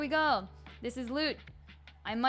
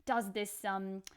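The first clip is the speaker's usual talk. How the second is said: put-on amateur British accent in casual chat. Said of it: "continue speaking in this accent".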